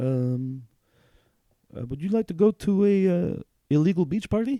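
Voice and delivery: very high, hesitant, timid asking voice. Retelling a new bartender, Job, coming up to him; imitating Job, timidly. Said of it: "really timidly".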